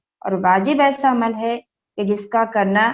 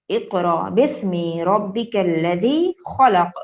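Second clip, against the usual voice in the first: slow, measured tilawat; Quran recitation; 2 semitones lower, much slower than usual. Acted. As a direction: recite each word slowly and evenly. Recites Quran verse slowly. (آہستہ تلاوت)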